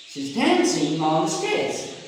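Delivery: "dancing" and "stage" stressed, small words slipped over; content-word stress. Shown as a demonstration. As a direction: hit "dancing" and "stage", glide over the rest. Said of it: "Dancing and stage are content words".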